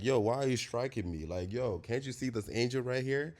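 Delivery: a hint of a street-talking donkey; mock-exasperated donkey asking why it is struck. Donkey voiced in Bible story.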